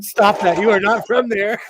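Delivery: mock self-scolding. Acted scolding of herself.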